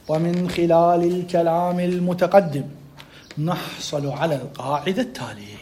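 slow, measured textbook reading; reading aloud. Shown as a demonstration. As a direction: read it out slowly, settling at the end. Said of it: "يلا راح أقرأ".

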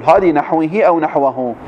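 نحوه read first as naħwihi then as naħwahu; two readings. Shown as a demonstration. Teacher reading نحوه both ways for students, naħwihi then naħwahu. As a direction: say نحوه once with final -ihi, then with final -ahu. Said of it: "يجي لنا الشارح ويقول".

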